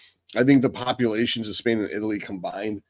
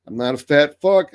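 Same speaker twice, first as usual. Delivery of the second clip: emphatic outburst; 5 semitones higher, 6 dB louder than usual. Real, not acted. Insisting he is not fat.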